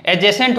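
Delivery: "एडजेसेंट" said a-jesent, without D; silent D. Shown as a demonstration. Teacher shows D is not pronounced, "एडजेसेंट" as a-jesent. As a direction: drop the D in "एडजेसेंट". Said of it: "यहाँ आपको डी प्रोनाउंसिएट नहीं करना".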